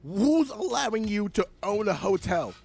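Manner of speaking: loud, high, scornful call-out; mocking rant. Real, not acted. Podcaster heckling the hotel co-owner, scornful and loud.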